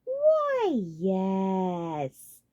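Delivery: mild strained scorn; suppressed scorn. A narrator's reading. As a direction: bite back contempt. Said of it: "held-back scorn".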